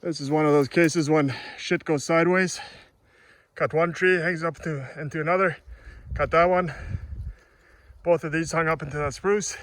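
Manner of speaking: talking while out of breath; winded, catching breath between phrases. Real, not acted. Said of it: "Sorry, I'm out of breath".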